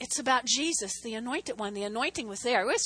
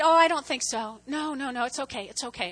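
being really nice. Retold or imitated. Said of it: "I was being really nice there".

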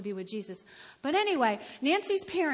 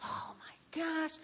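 slow, soft, drained groan; worn-out dismay; 3 semitones higher, 9 dB quieter, slower than usual. Acted. Someone after a horrible day, worn-out dismay. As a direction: sigh it out slowly, acting exhausted.

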